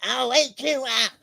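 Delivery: slow, high monstrous threat; drawn-out menacing storybook growl; fierce wild child. Acted. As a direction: roar it slowly like a little monster.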